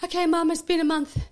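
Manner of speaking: high, loud whiny plea; imitating her daughter. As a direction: nag mum to come home, mock-pleading. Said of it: "messaged me today, say".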